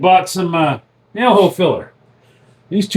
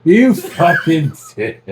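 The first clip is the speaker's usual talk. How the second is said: laughing insult; 3 semitones higher, slower than usual. Real, not acted. Laughing at the friend's prank.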